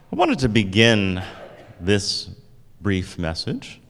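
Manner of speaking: television announcer. Shown as a demonstration. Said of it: "I sound like a television announcer".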